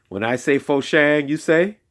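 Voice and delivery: high call to the group; rising call for the crowd to answer. Acted. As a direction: call it out, inviting a reply. Call and response with kids.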